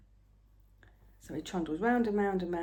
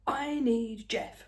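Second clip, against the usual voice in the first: panicky; 4 semitones higher, much slower than usual. Retold or imitated. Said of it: "in a very panicky voice".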